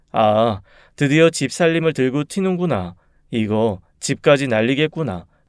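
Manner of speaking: usual speaking voice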